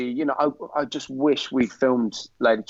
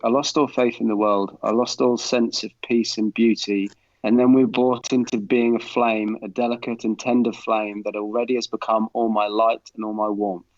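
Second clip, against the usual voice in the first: thespian reading. Retold or imitated. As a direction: recite it like a proper thesp. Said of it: "proper thesp on there".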